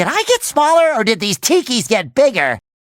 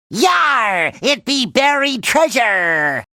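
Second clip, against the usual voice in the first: slow, hammed-up pirate talk; cartoon pirate; slower than usual. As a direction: play a pirate finding treasure. Playing a pirate.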